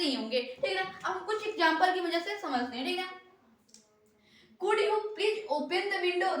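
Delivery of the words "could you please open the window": polite request. Shown as a demonstration. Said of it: "बड़े प्यार से कह रहा है".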